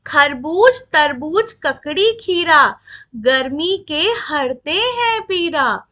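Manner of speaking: put-on measured reading of verse for children; poem recitation. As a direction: list the fruits in a slow reciting rhythm. (कविता पाठ की लय में)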